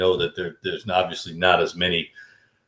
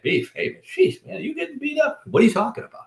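high-pitched mock-desperate pleading; pleading with friend. Calling Beaver about missing the action, pleading. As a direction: squeak it out in retold disbelief. Retold anxious phone call to friend.

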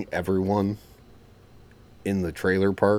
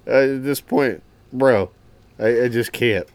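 exasperated; 5 semitones higher, 7 dB louder than usual. Real, not acted. Exasperated reaction to the story.

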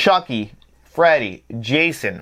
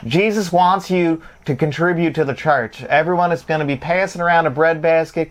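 Southern televangelist; 4 semitones higher than usual. Acted. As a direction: preach for donations in a Southern accent. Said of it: "be like a, a, a televangelist and do that accent".

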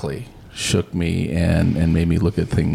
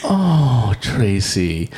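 a fond, knowing "Oh, Tracy"; fond mock reverence; knowing sigh; much slower than usual. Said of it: "everybody pauses and goes".

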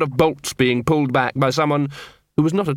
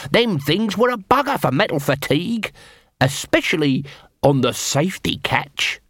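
sly corporal; 4 semitones higher than usual. Acted. Nobby needles the armourer about the siege weapon, mock concern.

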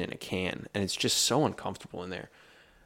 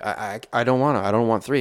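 louder, rising whine of refusal; whiny protest; 3 semitones higher, 6 dB louder than usual. Retold or imitated. Liv refusing to order only three bagels, loud whine. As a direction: protest like a sulking kid.

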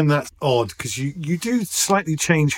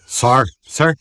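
Dublin accent; 3 dB louder than usual. Shown as a demonstration. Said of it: "You say it in a Dublin accent".

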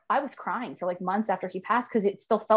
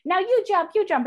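imitating a hyper kid, pitched much higher; excited kid; 10 semitones higher, 4 dB louder than usual. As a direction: lightly play the silly kid at the lake. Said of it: "one kid was like".

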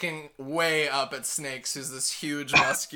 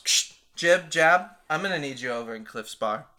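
crackly comms call, louder; radio call; 6 dB louder than usual. Acted. Koba calling guards over comms, radio voice.

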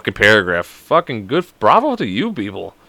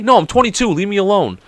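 high-pitched retort; mock brush-off; 8 semitones higher than usual. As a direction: wave off a pushy seller in a raised pitch. Acting out brushing off the hawker.

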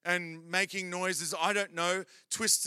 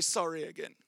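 mock penitent prayer; 2 semitones lower than usual. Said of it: "and we say".

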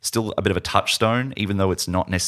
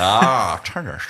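put-on Russian accent; much slower than usual. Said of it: "we're all doing our Russian accents".

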